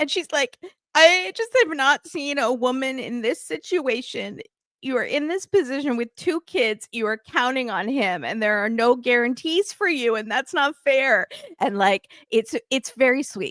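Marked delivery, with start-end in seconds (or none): 0.9-11.3 mock tearful speech, talking through crying. Retelling how Martini Pat starts crying too: imitating Martini Pat crying. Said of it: "Martini Pat starts crying too".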